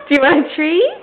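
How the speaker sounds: eager pet coaxing; talking to a dog. Real, not acted. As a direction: coax the dog with a treat.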